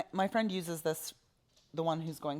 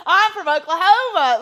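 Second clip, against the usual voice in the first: high, loud Oklahoma twang; exaggerated country Oklahoma accent; 12 semitones higher, 14 dB louder than usual. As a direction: holler it in a hammed-up Oklahoma accent. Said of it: "Oklahoma accent".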